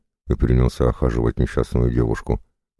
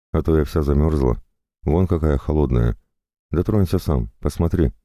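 a lightly voiced, higher pleading girl; pleading captive; 4 semitones higher than usual. The captive girl pleads with the jailer for food and clothes, lightly pitched up. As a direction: beg him sweetly, a little higher than the narration.

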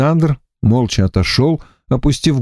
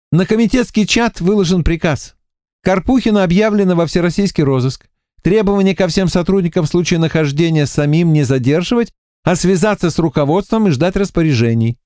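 a higher, businesslike lieutenant; voiced Varya reading; 6 semitones higher than usual. A narrator's reading. Лейтенант зачитывает приказ коллегам, деловито. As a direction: read the order out crisply to colleagues. Varya reads the order aloud.

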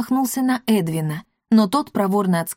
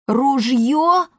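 alarmed, higher-pitched question; frightened; 6 semitones higher, 3 dB louder than usual. A narrator's reading. Pima hears a gun is coming, frightened. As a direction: blurt it out in alarm. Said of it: "перепугался Пима".

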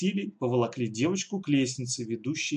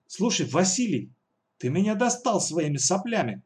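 exasperated outburst; 6 semitones higher than usual. Acted. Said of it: "взорвалась Алиса".

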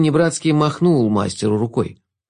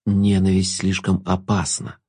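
slow, lower musing remark; philosophical; 5 semitones lower, slower than usual. Acted. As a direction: muse it calmly. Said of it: "философски заметил Шут". (философски, неспешно)

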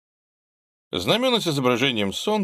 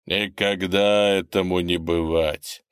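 slow, firm declaration. Acted. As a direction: state it firmly, slowly. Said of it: "твёрдо заявил он".

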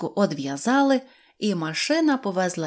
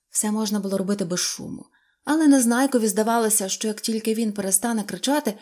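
usual speaking voice

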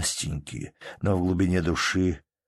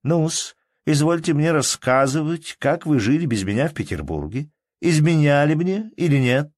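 higher, louder mock-formal teasing; playful interrogation; 9 semitones higher, 5 dB louder than usual. A narrator's reading. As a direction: tease him like a stern judge.

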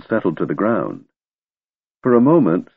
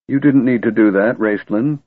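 trembling voice; 3 semitones higher than usual. Acted. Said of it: "her voice trembling".

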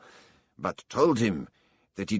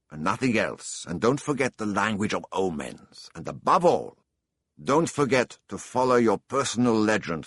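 put-on raised, urgent old king; impassioned exhortation; 4 semitones higher, 4 dB louder than usual. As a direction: press each warning home, louder. Old king's parting exhortation.

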